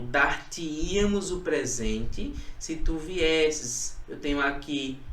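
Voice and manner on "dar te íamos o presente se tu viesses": slow, deliberate classroom dictation; slow careful example reading. Shown as a demonstration. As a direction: read "Dar-te-íamos" out slowly, syllable by syllable. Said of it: "Olha aqui o exemplo".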